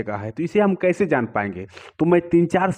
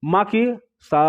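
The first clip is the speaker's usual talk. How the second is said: raised sa; 3 semitones higher, slower than usual. Shown as a demonstration. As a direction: lift the सा up a step. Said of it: "बढ़ी हुई, चूँकि वो छठे number पर है". (बढ़ा हुआ सा)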